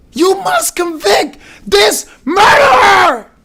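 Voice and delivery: high, drawn-out full shout; slow, screaming denunciation; loud prosecutor. Retold or imitated. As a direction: imitate a prosecutor shouting an accusation at the jury. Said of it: "like, she was loud".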